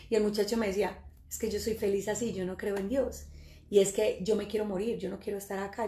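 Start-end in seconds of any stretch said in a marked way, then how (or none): 1.3-5.8 softly voiced, understated despair; retold despondent youth. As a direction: quote a young man quietly giving up. Voicing the possessed young man.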